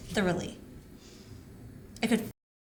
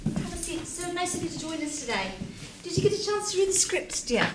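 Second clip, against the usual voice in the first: syrupy welcome; 5 semitones higher than usual. Acted. Director's syrupy welcome to actor.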